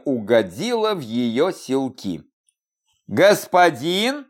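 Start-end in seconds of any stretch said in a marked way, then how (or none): 3.1-4.3 slow, barely suppressed giggle; stifling a laugh on the word; holding back laughter. Acted. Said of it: "едва сдержалась, чтобы не прыснуть в кулак". (с трудом сдерживая смех)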